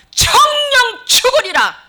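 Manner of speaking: high, loud, drawn-out proclamation; slow booming divine warning; thundering decree. Acted. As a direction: pronounce doom at full force. God's blunt warning, against devil's softness.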